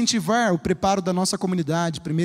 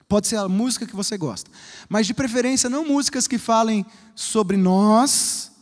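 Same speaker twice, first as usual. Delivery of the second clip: voice giving out. Real, not acted. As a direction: voice cracking, giving out. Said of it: "Minha voz tá falhando".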